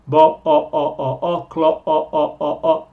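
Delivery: isolated o sound, repeated; drawn-out o vowel. Shown as a demonstration. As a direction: stretch the o of Bo and clo into a long open o. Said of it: "El sonido vocal es un o".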